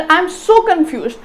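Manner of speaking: SO lifted in pitch in "I am so confused"; emphatic intonation. Shown as a demonstration. Teacher demonstrating intonation to students, stress on so. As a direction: lean on so, then fall through confused. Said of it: "ਜੋ ਮੈਂ so confused ਕਿਹਾ".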